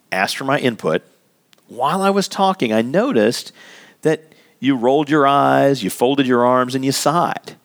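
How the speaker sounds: modelling a calm, sincere talk with Joe; calm honest opener. Shown as a demonstration. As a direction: speak openly but without blame. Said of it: "you can say".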